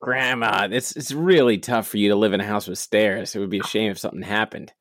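sweetly menacing, trailing off fast; smiling threat. Acted. Veiled threat to grandma.

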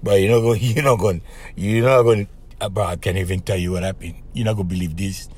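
mock low, hushed disbelief; stunned buddy. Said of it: "they hit me up and they go".

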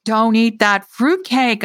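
desperate, slowed warning to the man. Acted. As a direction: push "fruitcake" hard and slow. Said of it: "I said desperately".

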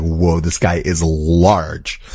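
slow, low, drawn-out awe; stunned, stretched-out amazement; awed aside. Retold or imitated. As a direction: marvel slowly at his sheer size. Awed at huge officer.

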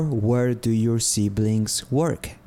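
slow, careful "Where do you live?"; slow teaching model. Shown as a demonstration. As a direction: say "Where do you live?" slowly for learners to copy. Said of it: "puedo preguntar algo como".

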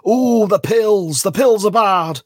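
high, loud, slow hunchback wail; Hunchback of Notre Dame. Retold or imitated. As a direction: moan it like a hunchback. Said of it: "You sound like the Hunchback of Notre Dame then".

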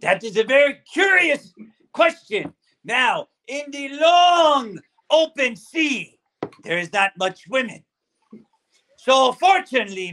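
put-on sage old pirate storyteller. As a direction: explain like a salty sea dog. Pirate answers crew question.

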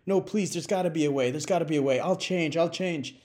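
mock terrified. Drunk father pleading with Saint Peter, mock terrified. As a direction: beg for another chance, comic fear. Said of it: "Richard's just terrified".

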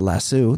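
"Lasso" said as lass-OO; "Lasso" ending in oo. Shown as a demonstration. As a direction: end "Lasso" on an oo sound. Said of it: "I pronounce everything properly".

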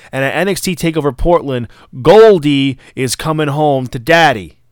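loud, building wrestler promo, mildly acted; wrestling promo impression. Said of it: "And Ciampa's like".

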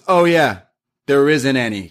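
normal talking voice

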